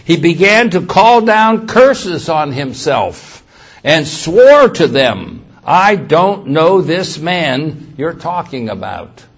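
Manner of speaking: loud, slow, hammered reading; emphatic scripture reading. A narrator's reading. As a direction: read the verse out with force.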